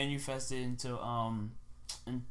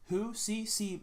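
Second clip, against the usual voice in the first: higher-pitched, puzzled questioning; feigned confusion; 8 semitones higher, much slower than usual. Retold or imitated. Friend covering up a bluff when asked about C, feigned confusion. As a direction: play dumb with a raised, questioning voice.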